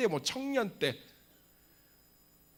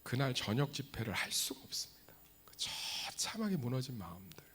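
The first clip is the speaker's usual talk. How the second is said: mournful whisper; 5 dB quieter than usual. Acted.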